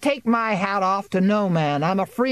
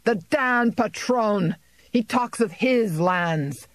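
angry tirade; 6 semitones higher than usual. A narrator's reading. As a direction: rage at the landlord before the crowd. Farmer rails at landlord.

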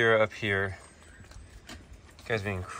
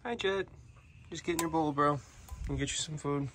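much higher, soft coaxing; high pet talk; 6 semitones higher, 6 dB quieter than usual. Real, not acted. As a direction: coax the pet sweetly. Greeting the pet.

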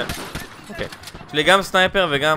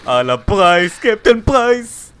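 hyped naming; 4 semitones higher, 5 dB louder, slower than usual. Real, not acted. Hyping the character again.

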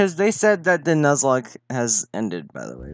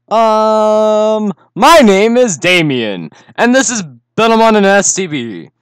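put-on eager kid voice; 7 semitones higher, 7 dB louder than usual. Voicing the player character.

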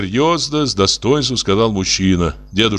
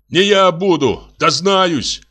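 voice breaking; 8 semitones higher, slower than usual. A narrator's reading. Костя cries out after the visitor, voice breaking. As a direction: shout through tears, voice cracking. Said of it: "крикнул Костя срывающимся голосом".

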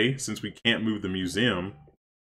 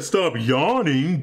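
playful scolding; 6 semitones higher, 4 dB louder, much slower than usual. Real, not acted. Teasing a yawning villager.

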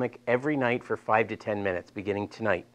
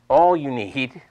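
real Delaware accent slipping out; louder, with a Delaware accent; 6 dB louder, slower than usual. Real, not acted. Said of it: "that's my Delaware accent coming out".

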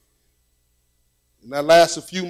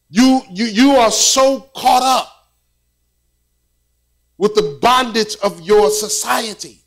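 prince's lecture; 3 semitones higher than usual. Retold or imitated. Voicing the prince's pitying look.

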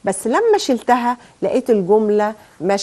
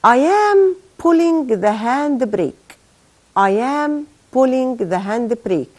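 slow dictation reading; 2 semitones higher, much slower than usual. Shown as a demonstration. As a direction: read it very slowly, first word pitched up. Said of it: "تعال نشوف كده هقول إيه". (قراءة إملاء بطيئة)

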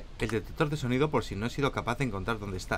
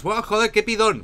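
higher, louder mock-exasperated viewer; imitated viewer; 8 semitones higher, 5 dB louder than usual. Mocking what viewers would say about his wishlist. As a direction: scoff like a fed-up viewer. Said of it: "Porque dirás".

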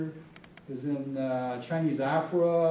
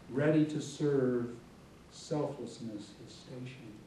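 measured, solemn reading of poetic prose; literary reading. Acted. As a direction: read it as reverent verse, phrase by phrase with pauses. Reads own book aloud.

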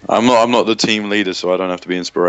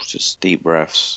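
slow breathy whisper; 3 semitones lower, much slower than usual. Pretend. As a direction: whisper it slowly, mock soothing. Whispered mock calm.

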